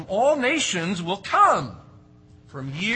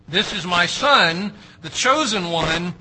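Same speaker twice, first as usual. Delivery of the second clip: loud, slow declaration of God's voice; booming proclamation; 2 semitones higher, 8 dB louder than usual. Acted. Preacher declaring God's words to Peter, loud and solemn. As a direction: proclaim it like a voice from heaven.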